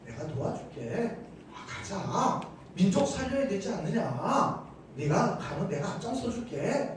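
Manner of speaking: soft, patient persuasion; softly cajoling; gentle coaxing. Acted. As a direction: coax a reluctant person along quietly. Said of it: "여태까지는 달겠거든요".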